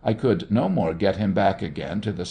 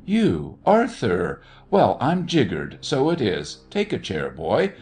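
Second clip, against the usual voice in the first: surprised greeting; 3 semitones higher than usual. Acted. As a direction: greet him like a man who can't believe his eyes. Uncle greets surprise visitor.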